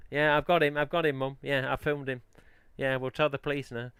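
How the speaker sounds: lightly acted report to Mum; panicky tattletale. Someone who filmed him reporting to Mum, lightly voiced tattletale.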